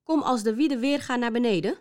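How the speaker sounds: hoog, luid paniekerig geroep naar boven; panisch roepen. Acted. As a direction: roep hem in paniek van de toren af. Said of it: "riep in paniek". (paniekerig geroepen)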